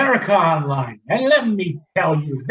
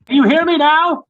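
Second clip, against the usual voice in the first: high, loud shout into the call; father yelling to be heard on a video call; 11 semitones higher, 5 dB louder than usual. Acted. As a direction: shout as if the line is bad. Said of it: "There's no need to shout".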